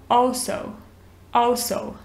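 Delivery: American also with an open o, oso; American accent. Shown as a demonstration. Teacher demonstrating the American also. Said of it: "Tem esse som mais de O, né, no americano".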